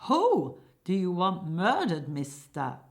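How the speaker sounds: loud demand, "Who" and "murdered" shouted; acted shout that drops away on "mister". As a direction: shout it as an impatient hired killer. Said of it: "hired killer shouting".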